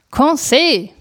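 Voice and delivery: calling his name across the house. A narrator's reading. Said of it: "rief ich abermals".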